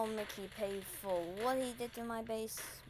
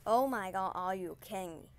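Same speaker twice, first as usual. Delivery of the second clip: exasperated outburst; 5 dB louder than usual. Real, not acted. Exasperated at game loss.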